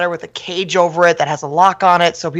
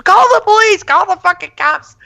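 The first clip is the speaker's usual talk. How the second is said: high, loud panicked yell; imitating a frantic mom yelling at her husband; mom screaming; 13 semitones higher, 3 dB louder than usual. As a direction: shriek at him to call the cops. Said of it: "My mom's screaming".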